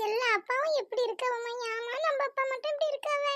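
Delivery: high, soft tearful daughter. Acted. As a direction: lament in a high, crying voice. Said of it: "ஏம்மா அழுவுற". (அழுகை கலந்த குரல்)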